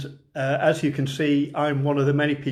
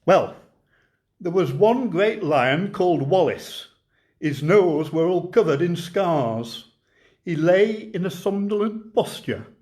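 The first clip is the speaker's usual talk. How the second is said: light Lancashire lilt, reciting a comic monologue; a gentle Lancashire storyteller reading a verse tale. Acted. Poet reciting The Lion and Albert to online folks, mild Lancashire lilt. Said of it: "I'll try and get my best Lancashire voice on for you".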